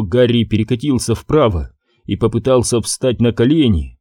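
usual speaking voice

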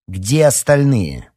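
loud, high, drawn-out stern question; menacing. A narrator's reading. Marina confronts the arrivals about who is missing, menacing. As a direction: demand it sternly, stretching the words. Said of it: "грозно спросила Марина".

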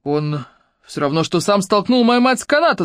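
mock shout, rising at the end; mild shout back. Claude shouts back at Ruby about his mother, mildly. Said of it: "закричал в ответ Клод".

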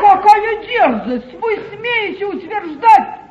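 slow, loud, mocking indignation; scornful outrage. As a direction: drag out each word in contempt. Duchess outraged at confession. (медленное насмешливое возмущение)

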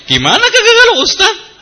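high, laughing disbelief. Real, not acted. Preacher laughing to congregation about gossip, laughing disbelief. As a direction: laugh through the question.

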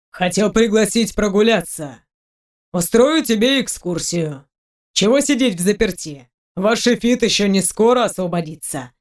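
brisk and practical now; businesslike tone. Acted. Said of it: "Тон со зловещего сразу сменился деловым".

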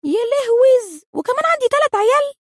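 hammed-up horror at the news; stretched, high mock wail; mock shock. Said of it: "وبعدين الصدمة اللي بعدها".

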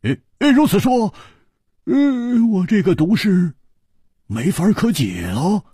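a hearty hero's alarmed outburst; wide-eyed Hu Tiehua. Acted. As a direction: play him startled and indignant. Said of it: "胡铁花瞪了瞪眼睛说".

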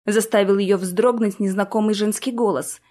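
usual speaking voice

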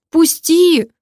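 high, loud, a hint of sobbing. A narrator's reading. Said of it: "разрыдалась она на улице". (высоко и громко, с лёгким намёком на рыдание)

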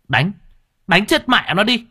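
high angry yell to beat him; bay for blood; crowd shout. Acted.

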